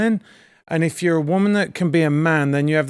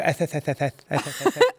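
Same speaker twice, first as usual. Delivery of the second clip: mock lisp; 3 semitones lower, 4 dB quieter than usual. Shown as a demonstration. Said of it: "it's just the way they say the th".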